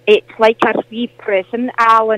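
a lightly put-on Scottish auntie, chatty and fond; Morag caller voice. Glasgow caller greets the radio host, in a lightly put-on Scottish auntie voice. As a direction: play the sweet old Glasgow lady caller.

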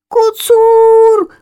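high, loud scared shriek; panicked chick scream; frightened shriek. A narrator's reading. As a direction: shriek at the sight of the cat. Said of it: "скричала лінивка".

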